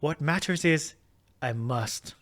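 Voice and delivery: put-on Irish accent. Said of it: "I'm Irish again".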